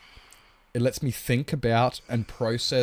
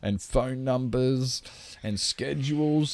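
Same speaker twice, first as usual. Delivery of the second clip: slow, drawn-out whiny quote; mild mocking viewer voice; mock chat objection; 3 semitones higher than usual. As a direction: parody the viewers' excuse. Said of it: "And you guys are like".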